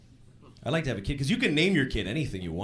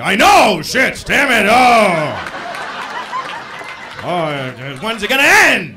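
loud, higher, hammed-up outburst against himself; mock self-loathing; 5 semitones higher, 8 dB louder, much slower than usual. Husband taking wife's side against himself, mock fury. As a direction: rage at yourself to end the fight. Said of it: "And I'm like".

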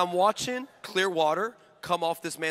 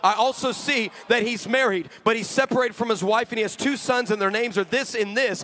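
retold earnest prayer. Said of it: "And I said".

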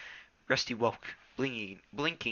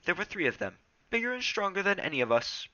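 Rusty voice; 10 semitones higher, faster than usual. Acted.

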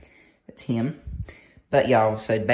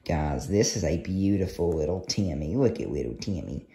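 cooing; 4 semitones lower, slower than usual. Real, not acted. Cooing over kitten.

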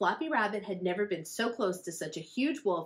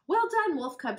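high, loud joyful praise; exclaimed; 10 semitones higher, 6 dB louder than usual. Acted. Big Wolf praising her cub, high and loud. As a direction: cheer your cub on. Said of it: "she exclaimed".

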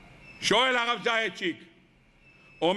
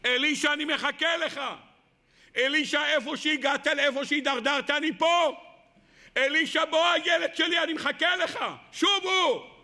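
rising, pleading call, climbing to a shout; God calling Elisha; 3 semitones higher than usual. Acted. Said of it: "הקדוש ברוך הוא אמר לו".

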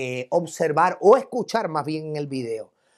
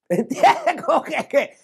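high-pitched laughing splutter; imitated stifled laugh; 8 semitones higher, slower than usual. Policeman trying not to laugh at the insults, imitated laughing. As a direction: break up as if caught off guard. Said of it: "se abrió la boca a reírse".

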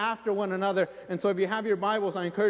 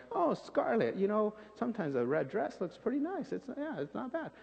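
mock casual shrug; 7 dB quieter than usual. Preacher mocks a shrugging reading of scarlet as harmless. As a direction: brush it off like it's nothing. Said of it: "supposed to be like".

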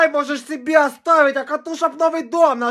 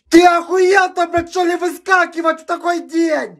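angry yelling; 3 semitones higher than usual. Acted. Yells at the pimple.

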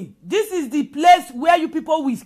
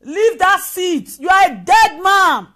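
shouted threat; 5 dB louder, slower than usual. Retold or imitated. Voicing threats against the president.

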